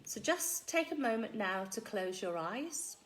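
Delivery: calm hypnotist pacing with long pauses; hypno voice. Acted. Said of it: "put on, uh, my hypno voice".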